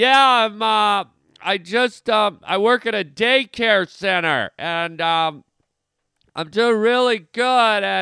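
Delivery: very loud, high-pitched yelling over pumping music. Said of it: "people just yelling".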